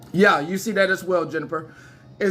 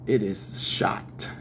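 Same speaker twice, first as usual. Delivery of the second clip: hoarse whisper; 9 semitones lower, 3 dB quieter, slower than usual. Real, not acted. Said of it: "my newscaster voice is".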